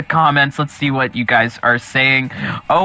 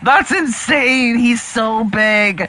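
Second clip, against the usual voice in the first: high, drawn-out excited exclamation; amazed; 7 semitones higher, slower than usual. Real, not acted. Streamer reacting to a huge fighter, amazed. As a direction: marvel at it in a high, stretched voice.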